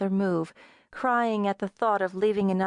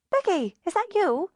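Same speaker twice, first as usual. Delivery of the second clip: higher voice of a friend on a crackling line; Sharon's voice; 10 semitones higher than usual. A narrator's reading. Friend on the phone, raised voice.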